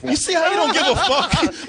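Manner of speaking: usual speaking voice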